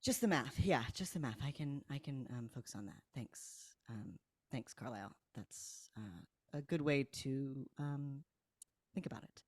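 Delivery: deflated. Acted. Roderick answering hurtful advice as his face falls, deflated. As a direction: trail off haltingly, trying to take it politely. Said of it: "Roderick's face sort of falls".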